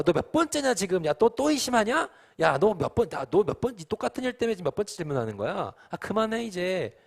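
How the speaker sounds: hammed-up impatient nagging; exasperated scolding. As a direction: act fed up with a repeat offender. Acted scolding God would never give.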